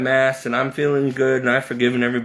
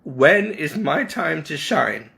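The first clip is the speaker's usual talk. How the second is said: pleading prayer; 4 semitones higher than usual. Retold or imitated. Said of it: "I yelled at the Lord".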